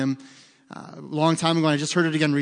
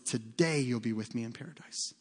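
much softer, lower and gentle; quiet Jesus quote; 5 semitones lower, 10 dB quieter than usual. Retold or imitated. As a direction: hush it down like a promise. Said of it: "he says".

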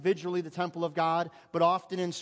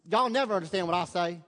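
put-on Arkansas accent; 5 dB louder than usual. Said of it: "What did you say, Bethany?".

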